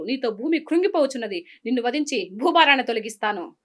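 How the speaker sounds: lightly acted righteous heroine denouncing a villain; understated theatrical indignation; Savitri. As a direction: declaim a mythological curse in long driving phrases. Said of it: "Savitri".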